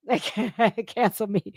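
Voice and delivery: repeating it while laughing; laughing through it. Real, not acted. Laughing over being cancelled, repeating it. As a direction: chuckle the words out.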